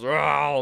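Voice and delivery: loud playful mock roar; T-Rex roar. The T-Rex lunges at the riders, a loud mock roar. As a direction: roar like the ride's dinosaur. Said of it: "the T-Rex goes".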